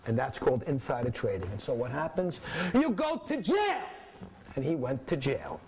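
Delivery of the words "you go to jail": emphatic punchline. Real, not acted. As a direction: land the punchline hard. Teacher dramatic punchline.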